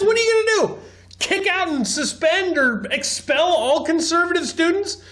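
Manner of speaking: high-pitched, exasperated disbelief; incredulous. Real, not acted. Commentator rebutting a teacher about protecting kids, incredulous. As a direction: fire back mocking questions, pitched well up.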